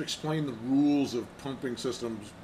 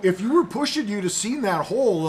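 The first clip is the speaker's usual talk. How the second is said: mock Canadian sorry; 6 semitones higher, 7 dB louder than usual. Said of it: "wasn't very Canadian of me there".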